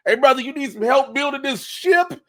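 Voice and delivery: hammed-up pal asking Noah; mock eager helper. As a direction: pitch in like a sly volunteer. Acted offer to Noah.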